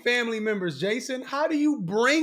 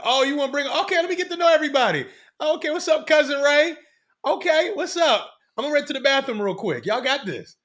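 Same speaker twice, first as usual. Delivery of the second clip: mock friendly greeting; 4 semitones higher, 5 dB louder than usual. Acting out her fake friendly exit.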